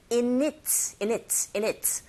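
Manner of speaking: "in it" run together as "i-nit"; linked sounds. Shown as a demonstration. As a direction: carry the n of "in" into "it". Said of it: "연음 현상이 일어나죠". ("in it"을 '이닛'처럼 연음으로 이어서)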